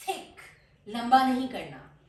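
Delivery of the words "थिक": "थिक" with a very short clipped I, not lengthened; "थिक" with a quick short I sound; short thick. Shown as a demonstration. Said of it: "आपने इसको फौरन बोलना है".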